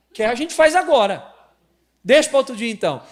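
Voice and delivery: high, loud mock quarrel; high, loud jokey marital spat; mock argument. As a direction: quarrel loudly in jest. Playful quarrel with wife.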